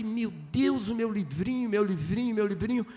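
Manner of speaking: softly retold, mild wonder; lightly acted awe, hushed; tearful enchantment. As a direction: murmur it over like a found treasure. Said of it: "com encantamento".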